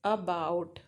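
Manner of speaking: "about" with weight on the BOUT; teacher's stressed "about", low aBOUT; stress on second syllable. Shown as a demonstration. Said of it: "उस particular syllable के ऊपर stress mark लगाते हैं".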